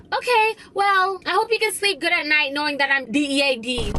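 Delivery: imitating guilt-trip. Friend threatening the narrator after being cut off, mock guilt-trip. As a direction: lay on the guilt like the toxic friend. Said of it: "she would be like".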